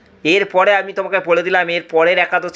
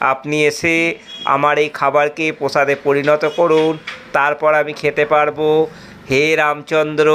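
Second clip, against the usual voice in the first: pleading prayer; 2 semitones lower than usual. Acted. Prayer again.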